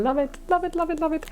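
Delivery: high delighted chant; excited. Real, not acted. Reader thrilled by card, high excited chant. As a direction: squeal it up with delight.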